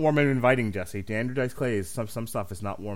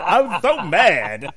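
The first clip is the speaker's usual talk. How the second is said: louder, higher, slow seething repeat; growled anger; 8 semitones higher, 10 dB louder, much slower than usual. Shown as a demonstration. Retelling his fury at the TV host. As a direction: drag out I was so mad, louder.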